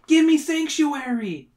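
high, slow dramatic cry; drawn-out theatrical appeal; hollered plea. A narrator's reading. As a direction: plead loudly for refuge. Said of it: "I hollered".

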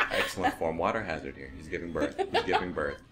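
golf announcer. Acted. Golf commentary bit.

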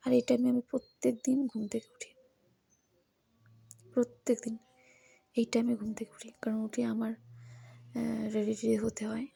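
hushed voice, half whispered; speaking softly. Real, not acted. Hushed vlogger talk while the family sleeps. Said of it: "আস্তে আস্তে কথা বলছি, কিন্তু সবাই ঘুমোচ্ছে".

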